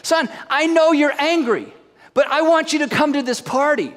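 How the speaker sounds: pleading father. Acted. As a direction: gently beg the son to come in. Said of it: "He pleaded with him".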